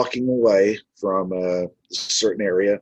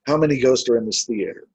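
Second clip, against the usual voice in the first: casual, quick question; lightly tossed-off question; nonchalant; faster than usual. Retold or imitated. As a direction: ask it offhandedly, in passing. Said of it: "Just kind of a nonchalant way".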